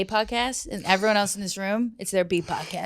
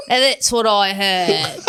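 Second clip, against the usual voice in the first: "that's" leaned on, drawn out slowly; slow, loud dramatic repeat; 6 dB louder, much slower than usual. Shown as a demonstration. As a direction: stretch "And that's what I heard" for comic weight.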